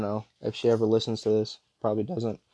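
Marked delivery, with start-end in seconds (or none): 1.8-2.4 real voice crack at the end. Real, not acted. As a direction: let the voice break slightly. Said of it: "You hear that crack in my voice".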